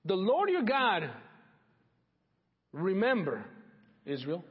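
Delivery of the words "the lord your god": slow and louder, each word weighted; The Lord your God hammered out slowly; emphatic slow proclamation. Real, not acted. Preacher hammering the phrase.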